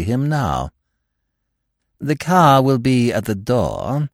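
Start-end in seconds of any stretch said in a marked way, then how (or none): 2.0-4.1 quiet firmness. Acted. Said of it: "said Baxter with quiet firmness".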